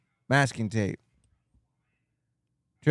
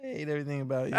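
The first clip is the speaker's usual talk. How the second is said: laughing shout; 5 semitones higher than usual. Real, not acted. Playful outburst while laughing.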